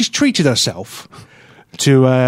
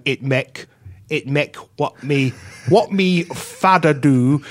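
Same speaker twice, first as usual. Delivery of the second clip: patois words read stiffly in an English voice; halting, slow patois in your own English accent; slower than usual. Shown as a demonstration. Poet showing why his own voice fails, patois read haltingly in an English accent. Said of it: "in my own voice going".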